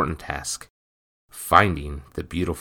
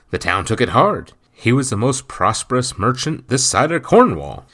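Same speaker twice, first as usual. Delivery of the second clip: spitting words through food, louder; mouth full; 4 semitones higher, 7 dB louder than usual. A narrator's reading. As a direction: talk through a bite. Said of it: "words spit through a second bite".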